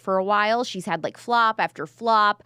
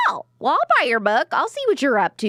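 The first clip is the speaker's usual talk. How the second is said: higher, louder playful retort; hammed-up pleased surprise; mock flattered delight; 6 semitones higher, 4 dB louder than usual. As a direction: act out being won over by flattery. Retells her flattered reaction.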